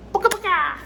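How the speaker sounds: squeaky, very high and loud nonsense call; playful noise for viewers before the smoke; silly booka cry. Real, not acted. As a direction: toss it off as a goofy little noise. Silly exclamation before lighting pipe.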